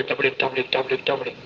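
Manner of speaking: soft clip-clop sounds in the mouth; horse hoof sounds. Retold or imitated. Youth mimics horse's gallop in his sermon, softly clip-clopping. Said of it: "घोड़े की music भी दे रहा".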